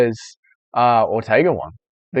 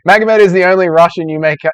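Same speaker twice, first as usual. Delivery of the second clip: put-on Dagestani accent, louder and higher; playful Dagestani accent; 5 semitones higher, 5 dB louder than usual. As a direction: read it aloud in a mock Dagestani accent. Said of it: "I'll give you the Dagestani accent".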